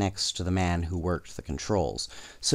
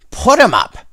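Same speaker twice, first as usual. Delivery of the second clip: much higher, much louder holdup yell; robber's shout; 14 semitones higher, 12 dB louder than usual. A narrator's reading. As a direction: bark it like a bandit. Robbers hold up the crowd.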